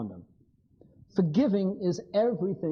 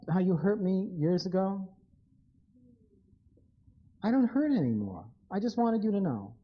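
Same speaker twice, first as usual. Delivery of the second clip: gentle confession; 2 semitones lower than usual. Acted. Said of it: "the person says the following to you".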